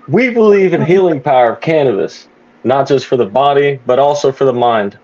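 a hint of an announcer read; commentator voice. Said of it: "I can read it like a commentator".

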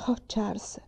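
breathless despairing whisper; hushed whisper. Acted. Mamma to Charles after the grasshoppers, despairing whisper. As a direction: barely voice it, crushed.

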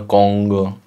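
Kongo with the N sent through the nose; nasal N. Shown as a demonstration. Teacher showing learners where N comes from, nasal N in Kongo. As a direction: let the N in Kongo resonate in the nose before G. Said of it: "to vám jde z nosu".

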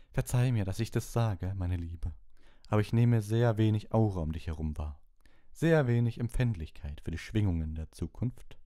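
high, loud, disdainful mystic; condescending seer. A narrator's reading. Trelawney to Hermine, high, loud and condescending. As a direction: talk down to her sweetly but coldly.

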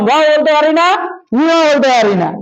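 talking with the lips held apart by fingers; holding the lips. Shown as a demonstration. Preacher holds his lips to show letters cannot form, muffled speech. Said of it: "ঠোঁটটা ধরলাম".

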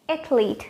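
"Athlete" as ATH-leet; correct two syllables. Shown as a demonstration. Teacher repeating the answer, correct two syllables. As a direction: say "Athlete" with th straight into l. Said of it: "just with two syllables".

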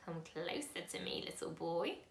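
a lightly voiced old man, slow and creaky; old man beckoning a boy, slow and creaky. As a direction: creak it out slowly like an old stranger. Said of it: "his voice was very slow and creaky".

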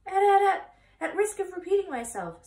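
high, loud goose stammering her words; stuttering goose. Acted. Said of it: "said the goose".

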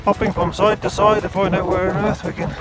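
talking while bouncing over stones; on a bumpy road. Real, not acted. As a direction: voice jolted by a rough road. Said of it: "bumpy, bumpy".

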